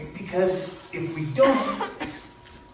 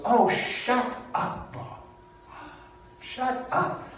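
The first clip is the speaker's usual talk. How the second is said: annoyed sibling; 7 semitones higher, much slower than usual. Retold or imitated. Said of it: "one of my siblings goes".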